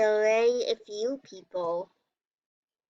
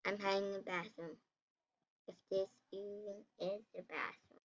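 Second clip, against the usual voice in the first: whispering while hiding; 4 semitones lower, 16 dB quieter than usual. Real, not acted. Hiding from murderer.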